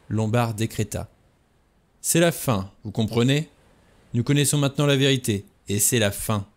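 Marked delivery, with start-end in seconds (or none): 2.0-6.5 mild menacing growl; menacing snarl. Acted. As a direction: threaten her, understated and hard. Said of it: "D'une voix semblable à un grondement, une voix menaçante, hargneuse".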